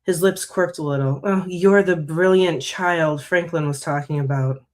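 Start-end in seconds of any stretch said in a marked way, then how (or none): 1.2-4.6 put-on slow, drawn-out sarcasm on "brilliant child"; sarcastic. Coven elder to the new girl, lightly sarcastic. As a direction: lean slowly on "brilliant child", lightly mocking. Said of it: "That sarcastic inflection on brilliant child".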